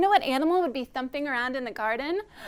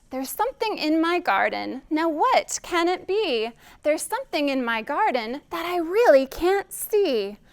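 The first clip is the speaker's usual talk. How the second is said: lilting, animated rhyme for little ones; children's rhyme recital; 3 semitones higher, 4 dB louder than usual. Shown as a demonstration. Reader inviting children to find garden friends, lilting rhyme. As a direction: recite a playful guessing rhyme.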